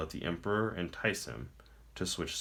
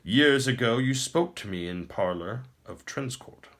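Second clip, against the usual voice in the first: higher, louder and grand, a pleased tyrant; smug emperor; 4 semitones higher, 4 dB louder than usual. Acted. The Emperor taunts the captive prince, smug and grand. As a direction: speak down to a beaten foe.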